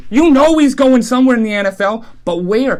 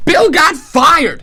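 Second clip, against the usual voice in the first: shouted reveal; 5 semitones higher, much slower than usual. Real, not acted. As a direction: belt out the shock news. Dramatic reveal of firing.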